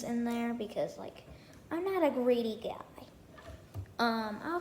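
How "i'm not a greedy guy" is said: whispered aside. Real, not acted. Aside about sharing fort.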